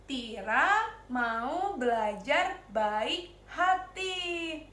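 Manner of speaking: put-on slow, drawn-out chant for the kids to follow; slow call-along recital; slow group recital. Shown as a demonstration. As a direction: say it slowly together like a class pledge. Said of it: "Kita sebutin ya bareng-bareng ya".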